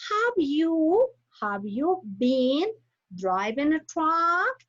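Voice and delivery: slow question, pitch rising at truck; rising question intonation. Shown as a demonstration. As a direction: let the voice go up on truck. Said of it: "The racing intonation".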